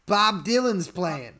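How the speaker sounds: mock Jersey accent, coaxing; New Jersey accent. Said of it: "Okay, New Jersey".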